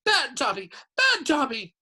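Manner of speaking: shouting. A narrator's reading. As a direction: punish yourself out loud.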